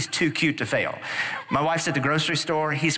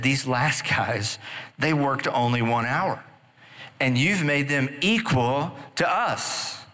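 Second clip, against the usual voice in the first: whiny grumbling workers; slower than usual. Acted. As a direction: whine it out like aggrieved laborers. Grumbling workers complain to manager.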